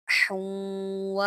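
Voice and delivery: हुन व slowly with the ha breathed out; clear ha. Shown as a demonstration. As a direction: sound the ha in हुन व. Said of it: "हा निकालें".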